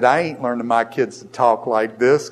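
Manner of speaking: light Southern accent, imitated; mock a relaxed Tennessee way of talking; a touch of Tennessee twang. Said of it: "the people talk down there like that".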